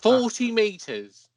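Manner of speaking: slow, drawn out. Pretend. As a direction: draw out each word proudly. Repeating guess for effect.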